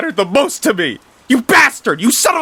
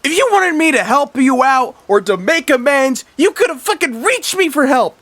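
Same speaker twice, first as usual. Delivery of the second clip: screamed way up high and very loud; grieving brother screaming at his murderous brother; furious screaming; 8 dB louder than usual. Acted. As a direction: scream it at the brother who killed them, voice cracking high. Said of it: "Mister Grouper yells".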